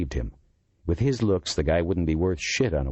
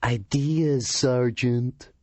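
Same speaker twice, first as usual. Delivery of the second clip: lofty; 8 semitones higher, much slower than usual. Acted. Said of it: "head back, chin raised".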